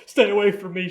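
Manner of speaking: high, loud scream to keep away; terrified shout. Retold or imitated. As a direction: scream him off in panic. Christine shouts at Cotton in fear.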